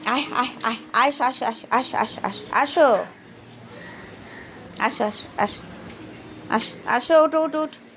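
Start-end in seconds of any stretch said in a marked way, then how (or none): 0.1-2.2 high coaxing call. Real, not acted. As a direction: beckon the little ones in a high voice. Calling the animals again.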